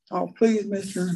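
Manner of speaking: high, wheedling plea from the snake; begging snake. Retold or imitated. Snake wheedling the man a last time, high whine. Snake begs once more.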